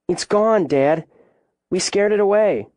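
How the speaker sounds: put-on high child's voice, eager; excited reassurance. A narrator's reading. Child reassures alarmed father.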